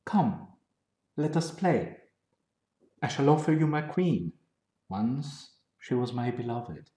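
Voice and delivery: grave reading of a translated poem; poem recitation. Acted. Reads his English translation aloud.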